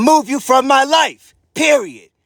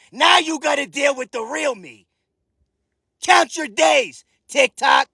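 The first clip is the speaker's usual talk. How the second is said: angry shouting; 4 semitones higher than usual. Real, not acted. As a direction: shout them down, every word a warning. Threatening rant at TikTok haters.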